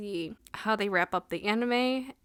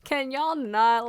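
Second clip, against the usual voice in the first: louder, slow, fed-up complaint; exasperated plea; 5 semitones higher, 6 dB louder, much slower than usual. Retold or imitated. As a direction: plead with the whole cast to stop. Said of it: "I was getting so frustrated".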